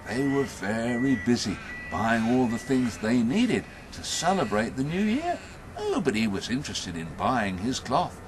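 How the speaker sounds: animated storyteller with swooping pitch; story narration. A narrator's reading. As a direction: draw out key words for the listeners. Tells a story to audience.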